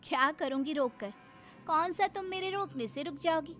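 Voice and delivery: swooping, reproachful complaint; aggrieved wife. Acted. Wife to husband going off with friends, resentful. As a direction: scold him bitterly as the wronged wife.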